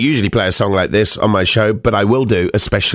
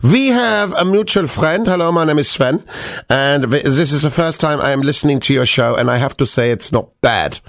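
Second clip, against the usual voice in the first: put-on German voice; German accent; 2 semitones higher than usual. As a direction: read the message in a mock German accent. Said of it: "allowed to do the German accent".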